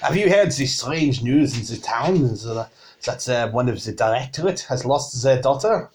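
put-on tavern keeper gossiping in a French accent; mock-French innkeeper's chat. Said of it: "difficult to do with this accent".

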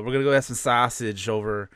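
stereotypical Chicagoan ordering sausage; playful Chicago accent. Acted. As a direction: put on Da Bears style Chicago talk. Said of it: "stereotypical, like, Chicagoan accent".

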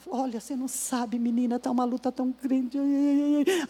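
soft, sighing moan of self-pity; whiny lament. Retold or imitated. Colleague moans softly about her struggle. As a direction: groan out your troubles quietly. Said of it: "uma lamentação".

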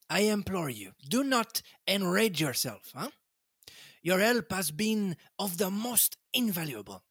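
lightly voiced Belgian detective, gently smug; a hint of Poirot, explaining to his friend. Poirot gently teasing Hastings, lightly voiced.

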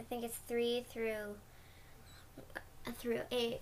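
trailing into a near whisper; unsure, fading to a whisper; quiet. Real, not acted. Kid trailing off, unsure of verses.

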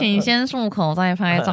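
slow, stiff system announcement; slow automated voice. Pretend. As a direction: read it like a machine prompt. Mock app voice.

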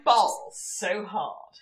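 slow, stiff posh try at street slang; bad slang attempt. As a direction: say it slowly like a posh girl faking street talk. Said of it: "Can you just say it for me one more time".

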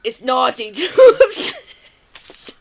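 slow, low mock Austrian accent; drawn-out bad Austrian accent, breaking up laughing; Arnold impression. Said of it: "you gotta do a Arnold".

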